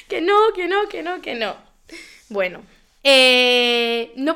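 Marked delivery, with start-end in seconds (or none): 0.1-1.5 insistent refusal. Retold or imitated. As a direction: protest over and over, sinking away. Retold tearful refusal to boss.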